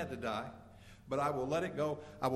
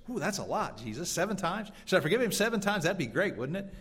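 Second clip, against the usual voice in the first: smug Peter; 6 semitones higher than usual. Acted. Peter mocked as generous.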